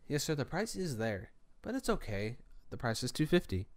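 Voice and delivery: soft, placating clerk voice; nice guy voice. Retold or imitated. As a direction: gently humour the customer, keeping it quiet. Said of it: "put my nice, nice guy voice on".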